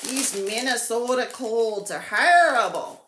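put-on quoting the old commercial in a light Minnesota accent; a hint of a Minnesota accent, hammed up; imitating a cold-medicine ad. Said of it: "They'd say".

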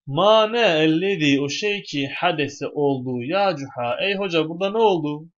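high, loud cry of alarm; wife crying out at Hoca over the robbed house; wife's shout. Acted. Wife shrieking at Hoca on finding the house robbed, loud and high. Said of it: "çığlık attı ve galet şöyle dedi".

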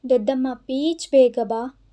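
a mild, lightly voiced child's whimper; pouting cry. Little boy begging his aunt to come, mild pouting cry. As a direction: whine for her to come quickly. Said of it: "ಮೂತಿಯುಬ್ಬಿಸಿ ಅಳುವನ್ನು ಜೋರು ಮಾಡಿದನು".

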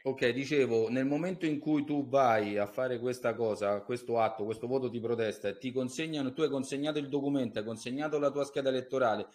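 faint, distant caller; far from mic. Real, not acted. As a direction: voice drifting away from the phone. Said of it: "avvicinati perché non ti sento bene".

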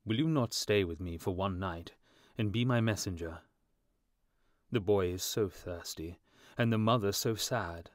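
earnest, lightly voiced appeal; pleading statue prince. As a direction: implore him with restrained sorrow.

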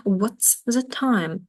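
What's said fast and slow overall, clipped to one syllable; contracted what's. Shown as a demonstration. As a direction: demonstrate the short what's form. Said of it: "Це пришвидшена вимова". (пришвидшена вимова What's)

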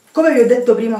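panting after changing jeans; breathless, catching her breath. Real, not acted. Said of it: "scusate il fiatone". (senza fiato, col fiatone)

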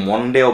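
"মন্ডেও" with a round O, like mon-day; wrong O vowel. Shown as a demonstration. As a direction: say the first vowel of "মন্ডেও" as a full O. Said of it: "মা, ম দুইটার মাঝখানে". ("মন্ডেও"-তে গোল ও ধ্বনি)

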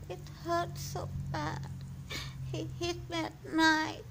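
high, crying, frightened small voice; frightened child telling Lou about the beatings; scared child voice. Acted. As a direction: sob it like a hurt child. I'm scared.

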